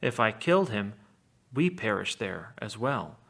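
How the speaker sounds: measured epic reading with a touch of drama; reading an epic aloud. A narrator's reading. Teacher reading Odysseus's lie to the Cyclops aloud, in epic style. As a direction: read it like the Odyssey text. Reads Homer's text aloud.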